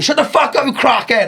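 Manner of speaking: high-pitched retold heckle; imitated shouting. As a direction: call it out high from the back of the room. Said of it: "like, shouting at him".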